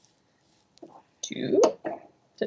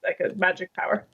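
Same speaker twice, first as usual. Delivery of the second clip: hushed, secretive whisper; 4 semitones lower, 4 dB quieter than usual. Pretend. Joking about her memory.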